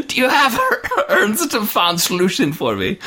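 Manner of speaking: acted outburst verging on laughter; hammed-up yelling. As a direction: erupt into an unhinged villain's shout. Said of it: "starts yelling at her again".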